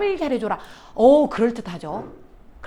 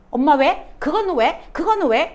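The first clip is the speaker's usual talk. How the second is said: a hint of a whiny child asking why; lightly voiced pestering kid; nagging child; 3 semitones higher than usual. Teacher voicing a child pestering mom with whys.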